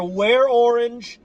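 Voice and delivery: slow, loud, drawn-out urging; slow, loud emphatic reminder; emphatic plea. Real, not acted. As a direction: lean hard on every word. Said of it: "urges viewers to wear orange".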